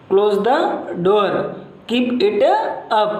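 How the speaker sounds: "close the door, keep it up" dropping at the end; falling tone. Shown as a demonstration. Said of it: "ये falling tone वाले, यही सही है". (गिरती tone में आदेश, यही सही)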